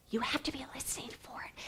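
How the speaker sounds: very soft, secretive whisper. Shown as a demonstration. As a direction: make them strain to hear it. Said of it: "This voice whispers".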